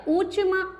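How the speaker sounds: ordinary delivery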